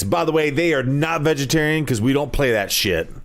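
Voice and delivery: radio ad voice. Pretend. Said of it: "radio voice".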